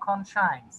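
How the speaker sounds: conscience said as kon-shains; pronunciation of conscience. Shown as a demonstration. Teacher showing students to pronounce conscience as kon-shains. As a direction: model conscience with a "shains" ending. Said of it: "এই যে উচ্চারণ".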